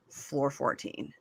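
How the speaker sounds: low, slow and hushed; terse phone complaint. Acted. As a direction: quietly order it done, no debate. Acted terse call to front desk.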